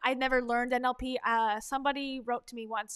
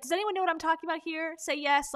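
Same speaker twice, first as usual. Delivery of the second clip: slightly higher, quicker audience-prompting question; imitating motivational speaker; 4 semitones higher, 4 dB louder than usual. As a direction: lightly mimic a speaker working the crowd. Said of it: "she'll use this and she'll say".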